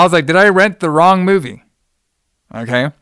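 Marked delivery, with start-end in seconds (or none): 0.3-1.6 higher, louder disbelief; incredulous. Retold or imitated. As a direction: ask it in sheer disbelief. Shocked aside while watching.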